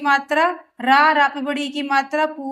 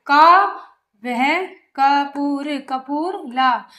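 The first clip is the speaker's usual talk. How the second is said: broken reading; much slower than usual. Shown as a demonstration. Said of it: "पहले आप तो तोड़ के पढ़ो".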